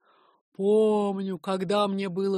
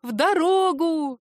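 bright, higher and slower exclamation; joyful; 9 semitones higher, 8 dB louder, slower than usual. Acted. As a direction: call it out with joy at setting off. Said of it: "Аня радостно".

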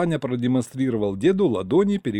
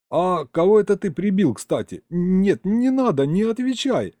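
alarmed shouting; 8 semitones higher, 3 dB louder than usual. Acted. Hero dreads grandpa's story.

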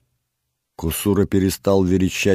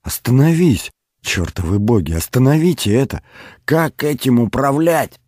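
high, loud frantic yelling; desperate shouting; 9 semitones higher, 5 dB louder than usual. Acted. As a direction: yell at the gods in despair. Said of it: "снова закричал Олег".

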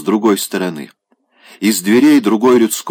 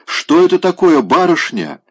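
wailing; 9 semitones higher than usual. Acted. Wailing servant girl.

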